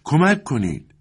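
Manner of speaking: high-pitched call for help, moderately loud; cry for help. A narrator's reading. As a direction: call out for rescue with pitch well up. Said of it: "دوباره این صدا بلند شد".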